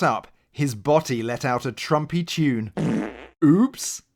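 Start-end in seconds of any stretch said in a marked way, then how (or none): 3.4-4.0 surprised. A narrator's reading. Narrator's comic aside.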